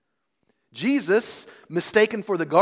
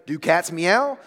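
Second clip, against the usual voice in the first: louder rhetorical question with a rise; emphatic yes; 5 dB louder, slower than usual. Acted. Answering someone's ice cream invitation, emphatically. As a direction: ask it as if the answer is obvious. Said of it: "That is an emphatic yes".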